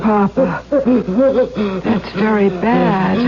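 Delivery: slow, laughing mockery; taunting laugh at the dying father; cruel laughter. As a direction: savour his pain with a mocking laugh. Mocks father's heart attack.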